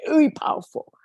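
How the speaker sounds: whispered very powerful. Real, not acted. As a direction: breathe it out in a whisper. Emphasizing mother's lesson.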